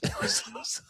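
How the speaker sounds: breathy laughter through the words; laughing. Real, not acted. Father cracking up recalling his daughter, laughing. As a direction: laugh it out, barely talking.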